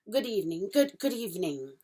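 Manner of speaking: stammering fawn, tripping over the greeting; a shy faun fumbling hello; fawn's voice, a stammered good evening; fawn's flustered greeting. Acted. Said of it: "said the fawn".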